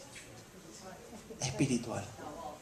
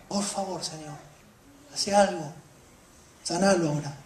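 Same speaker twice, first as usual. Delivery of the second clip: soft, pleading request; quiet earnest plea; hushed plea; 3 semitones lower, 9 dB quieter than usual. Acted. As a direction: drop almost to a murmur as you beg. Quiet plea ending the prayer.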